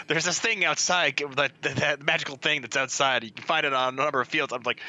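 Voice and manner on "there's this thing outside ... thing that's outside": mocking imitation. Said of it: "the statement you made is".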